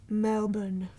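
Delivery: "Melbourne" said slowly as MEL-bun; local-style pronunciation. Shown as a demonstration. Host carefully getting Melbourne right mid-story, local-style pronunciation. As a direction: draw out "Melbourne" with the r dropped. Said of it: "That's good".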